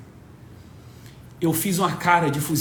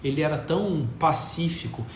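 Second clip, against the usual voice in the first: softer, quick objecting voice; quiet objector; 4 semitones lower, 5 dB quieter, faster than usual. Retold or imitated. A critic objects to Diego, quick and soft. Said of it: "fala assim".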